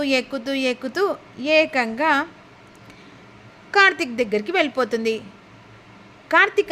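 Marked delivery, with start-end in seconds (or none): 6.3-6.7 a mildly louder, higher call of Karthik's name; retold shout. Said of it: "అని గట్టిగా అరుస్తుంది". (కొంచెం గట్టిగా పిలిచినట్టు)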